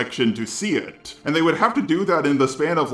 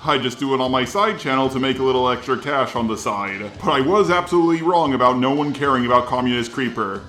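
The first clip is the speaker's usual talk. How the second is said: robot voice. Shown as a demonstration. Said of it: "doing this response in the robot voice".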